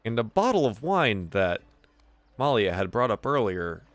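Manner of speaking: measured scene setting with pauses; game master narration. Acted. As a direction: unfold the scene phrase by phrase.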